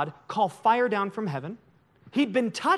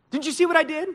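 raised, louder reproach; scolding God; 8 semitones higher, 5 dB louder, faster than usual. Acted. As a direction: scold a disappointing servant, higher and louder. Acting God scolding the prophet.

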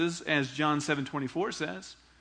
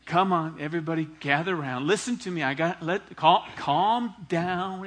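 friendly call to the crowd; 3 dB louder than usual. Acted. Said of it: "gathers the crowd up with a smile".

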